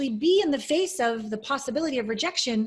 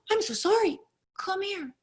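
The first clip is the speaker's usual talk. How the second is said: tearful apology; 8 semitones higher than usual. Retold or imitated. Apologizing to inner child.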